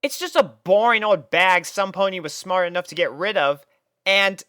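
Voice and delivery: high, brash scoff; dismissive Rainbow Dash. A narrator's reading. Rainbow scoffing at the bag in the river, high and cocky. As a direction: brush it off as nothing.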